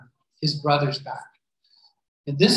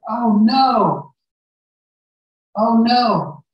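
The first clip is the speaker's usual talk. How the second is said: mock dismay; 5 semitones higher, 7 dB louder, much slower than usual. Brothers find cup in bag.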